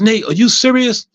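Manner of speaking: high, slow incredulous question; retold disbelief. Nurse questions patient's calm reaction, acted disbelief. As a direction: imitate a nurse who can't believe it.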